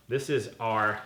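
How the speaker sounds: normal talking voice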